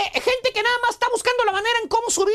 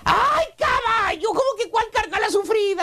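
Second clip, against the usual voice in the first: mock outrage. Real, not acted. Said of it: "exclaims at co-host".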